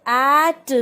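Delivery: at with a long open 'ae'; sounded-out example. Shown as a demonstration. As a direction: stretch the vowel in at. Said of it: "the sound of A". (at में खुली 'ऐ' की आवाज़)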